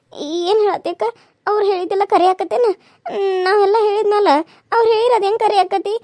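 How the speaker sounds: questioning through tears; wife doubting the oracle to her friend, tearful. Acted. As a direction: ask it while crying.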